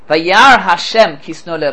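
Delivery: slow, weighty reading of the verse; slow, deliberate citation. Shown as a demonstration. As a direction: lay out each word of "Vayar Hashem ki sanu Leah". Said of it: "Listen to this".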